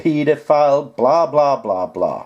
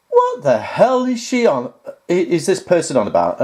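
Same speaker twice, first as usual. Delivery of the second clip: exasperated disbelief; 4 semitones higher than usual. Retold or imitated. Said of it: "I went".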